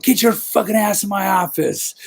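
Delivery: clipped angry boss voice; angry boss order. Retold or imitated. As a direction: summon him like a furious boss. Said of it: "He's like".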